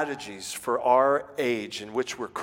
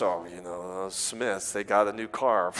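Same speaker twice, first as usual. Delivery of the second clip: jealous grumble; 7 semitones lower, 3 dB quieter than usual. Acted.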